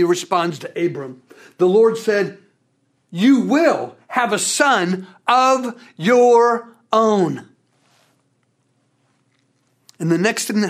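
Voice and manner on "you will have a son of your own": God's promise. Acted. God's promise voiced in sermon.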